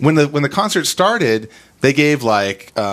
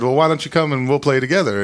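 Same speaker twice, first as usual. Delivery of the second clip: lightly imitated British storytelling voice; a singer, British accent; 3 semitones higher than usual. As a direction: chat on in a rough British accent. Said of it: "this is my British accent".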